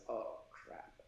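whispered under the breath, a mild mock panic; a hushed oh crap of dismay to himself; muttered dismay. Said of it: "I thought to myself".

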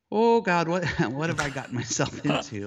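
hammed-up alarm, laughing at himself; mock panic. Photographer panicking when the stranger starts crying, high nervous laugh.

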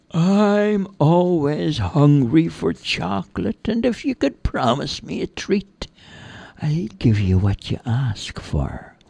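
hungry fairy striking a bargain. Acted.

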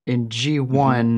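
loud and drawn out; too loud. Real, not acted. Explainer moving on to G one, too loud. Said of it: "I'm getting a little too loud".

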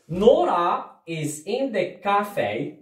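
نورا is in the cafe drawn out slowly, rising on نورا; slow model sentence. Shown as a demonstration. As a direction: read it slowly to beginners. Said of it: "إذا".

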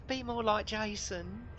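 high, slow put-on nagging wife; high-pitched mock wife with an accent; wife impression. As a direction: mimic a moaning wife in a high, drawn-out voice. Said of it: "you sound way better than my impression".

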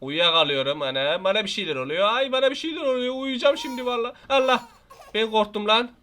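usual speaking voice

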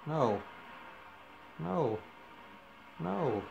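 no no no, pitch climbing; protesting. Real, not acted. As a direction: plead with the game. Repeated protest in game.

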